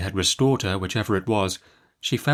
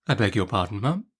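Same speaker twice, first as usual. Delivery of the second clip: faltering. Acted. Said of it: "faltered my mother".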